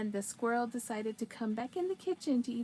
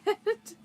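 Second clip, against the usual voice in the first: short high laugh; 10 semitones higher, 7 dB louder than usual. Real, not acted. Laughs after agreeing.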